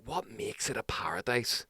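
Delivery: hushed, wondering repeat of the question; whispered question. Retold or imitated. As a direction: whisper it back to yourself. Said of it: "It's like".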